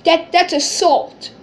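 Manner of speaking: loud, high whiny sobbing imitation; mock crying. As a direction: wail it between fake sobs, mocking a crybaby. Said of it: "He gets up crying".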